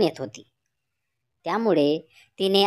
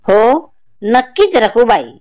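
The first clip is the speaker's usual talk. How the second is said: put-on louder, slow old woman's voice; old grandmother; 3 semitones higher, 7 dB louder, slower than usual. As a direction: speak as the village grandmother, slow and loud. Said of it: "असे म्हणत".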